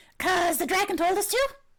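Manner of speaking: high, loud kobold voice. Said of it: "I love the kobold voice".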